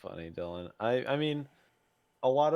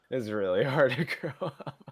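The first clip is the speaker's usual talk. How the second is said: laughing; 3 semitones higher, 4 dB louder than usual. Real, not acted.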